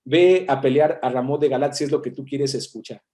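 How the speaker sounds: mock go-along, as if humouring someone; sarcastic. Prophet humouring the king about going to battle, lightly sarcastic. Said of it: "hablando de forma sarcástica".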